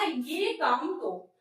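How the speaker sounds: "तो" drawn out slowly and weighted; slow teaching stress on "तो". Shown as a demonstration. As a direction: lean on "तो" in ये काम तो. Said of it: "तो यहाँ पर मैंने किससे जोड़ दिया, तो पे दिया".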